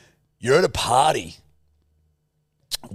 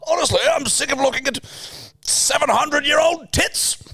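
posh English ghost. Acted. Posh English ghost complains about old tits. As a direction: shriek it like a dirty old ghost. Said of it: "posh English ghosts".

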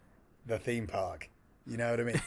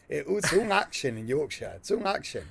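mock Yorkshire accent. Co-host teasing about Yorkshire adventures, mock Yorkshire accent.

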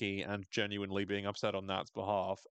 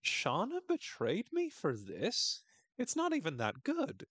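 slow, much higher mock complaint; disappointed Jackie; 9 semitones higher, slower than usual. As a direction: whine it like a let-down teen. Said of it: "she's going".

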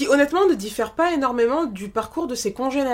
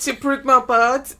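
slow teasing; 2 semitones higher, 3 dB louder, slower than usual. Pretend. Repeating the fart joke.

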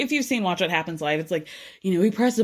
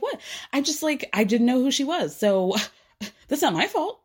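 higher, airy mock innocence; mocking Vicki; 5 semitones higher than usual. Imitating Vicki in her interview, high mock innocence. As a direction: brush it off like it's nothing. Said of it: "She's like".

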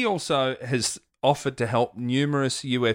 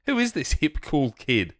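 jumps way higher on "who is this hip"; mock hip admiration; 5 semitones higher than usual. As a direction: pitch "who is this hip" up high, teasing. Mock-admiring repeat of phrase.

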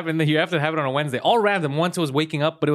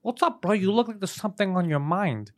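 mock buddy voice; 4 semitones higher than usual. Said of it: "He's like".

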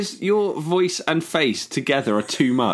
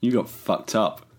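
low, slow stoned drawl; stoned hippie; 7 semitones lower, much slower than usual. Pretend. Mocking friend about dentist drugs, low slow stoner voice. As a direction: play a spaced-out hippie.

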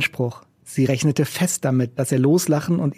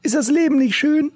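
raised, rough busker voice; gruff old street musician; 13 semitones higher than usual. A narrator's reading. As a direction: play the cynical old busker. Macke asks.

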